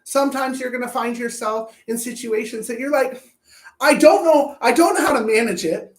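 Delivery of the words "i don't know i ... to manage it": loud, flustered I don't know; hammed-up loud helplessness; mock overwhelmed cry. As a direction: blurt it out as if swamped. Acting out overwhelmed person.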